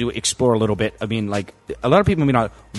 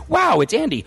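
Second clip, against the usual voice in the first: a pitched-up, mock-amazed "Wow, it's Andy"; amused retelling of repeated surprise; 10 semitones higher than usual. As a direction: replay the moment he kept spotting Andy again. Repeats the same retold reaction.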